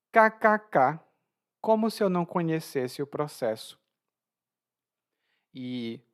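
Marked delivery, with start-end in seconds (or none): 0.1-3.8 ironic. Acted. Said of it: "como uma maneira de ironizar".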